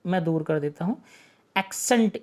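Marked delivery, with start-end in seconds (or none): 1.6-2.2 "Accent" said as AK-sent, with a hard k before the s; pronunciation demo. Shown as a demonstration. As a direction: carefully pronounce "Accent" with a k-s in the middle. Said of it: "इसका pronunciation क्या है".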